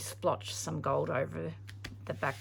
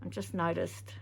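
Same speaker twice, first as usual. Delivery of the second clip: mouth full. Real, not acted. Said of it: "I've got the paintbrush in my mouth now".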